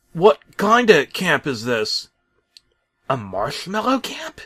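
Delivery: put-on high, slow little-kid voice; small child. Talking truck asking Bob, in an excited high child voice. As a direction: ask it like an eager small child. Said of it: "like a small child".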